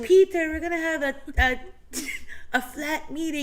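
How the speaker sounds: high, loud, fast mock call to a flatmate; hammed-up roommate summoning Peter; mock housemate announcement. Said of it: "And he's like".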